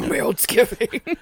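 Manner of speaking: slow stretched Meltsgiving; drawn-out echo. Shown as a demonstration. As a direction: draw out Meltsgiving slowly, amused. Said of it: "echo drawn out".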